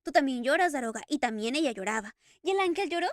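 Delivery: loud, tearful outburst, voice breaking; sobbing Eric. Acted. Eric weeping to the Daroga over the kiss, loud and tearful. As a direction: pour it out between sobs. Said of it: "Eric sollozaba".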